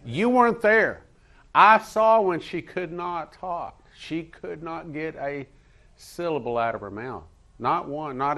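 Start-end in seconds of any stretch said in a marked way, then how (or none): 0.1-6.8 high, loud, emphatic testimony; impassioned preaching. Real, not acted. Preacher telling church of a miracle seen, impassioned preaching. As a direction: testify forcefully, pitched high.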